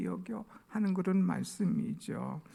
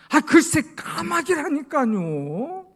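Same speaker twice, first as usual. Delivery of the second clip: rising annoyed voice; 11 semitones higher, 7 dB louder, slower than usual. Retold or imitated. 세 번째 묻는 아버지에게 아들이 언성을 높이는 짜증. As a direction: voice climbs high and loud in irritation. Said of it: "언성이 뒤가 쭉 올라가는 거예요".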